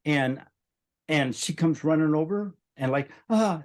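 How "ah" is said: mock panicked cry. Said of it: "couldn't make a word".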